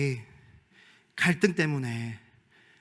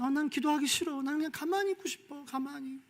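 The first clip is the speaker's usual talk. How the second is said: lazy reluctant believer; 11 semitones higher, 5 dB quieter than usual. Retold or imitated. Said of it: "이렇게 부르는 게 기도라면".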